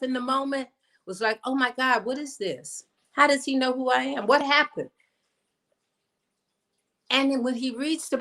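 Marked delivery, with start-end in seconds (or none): 1.4-4.9 higher-pitched, mildly flustered inner voice; insecure inner self. Retold or imitated. Little me not feeling good enough at the surprise proclamation, mildly flustered. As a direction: lightly voice a bewildered, unsure self, pitched up. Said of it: "the little me who, you know, didn't feel quite good enough".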